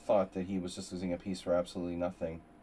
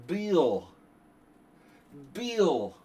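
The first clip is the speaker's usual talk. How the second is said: calling out much higher and louder, slow; hammed-up greeting; 8 semitones higher, 8 dB louder, much slower than usual. Streamer greeting Bill in a hammed-up, much higher and louder voice. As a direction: sing out a grand overdone hello.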